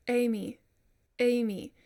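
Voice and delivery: "Amy" started with a hard glottal attack; harsh onset. Shown as a demonstration. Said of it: "harsh onset of the word".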